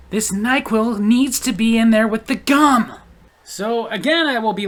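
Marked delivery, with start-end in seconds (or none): 0.1-2.9 slow, stubborn mock voice, a bit louder; determined customer mock. Cashier imitates a determined customer, slow stubborn mock. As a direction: drag it out like a stubborn shopper who won't budge. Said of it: "they're just determined".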